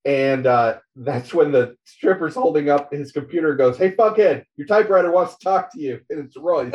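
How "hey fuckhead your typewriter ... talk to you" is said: higher, louder mock yell at him; stripper calling out. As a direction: call him over, brash and mocking. Stripper calls out to Spider.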